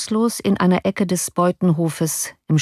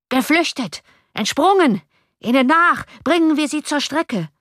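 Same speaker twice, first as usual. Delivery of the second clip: much higher furious mob cries; cursing mob; 10 semitones higher than usual. A narrator's reading. The street mob roars for pursuit, furious high cries. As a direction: curse and call for the chase. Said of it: "unter grässlichen Verwünschungen".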